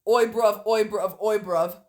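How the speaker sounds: mock cockney "oi, bruv" calls; imitating London lads, loud; rough London slang. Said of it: "came out and were like".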